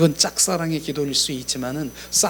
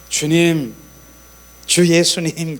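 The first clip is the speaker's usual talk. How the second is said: calling out to the Lord, loud; loud prayer call; 6 dB louder, much slower than usual. Retold or imitated. Preacher mimics a loud call to the Lord. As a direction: cry out his name in prayer.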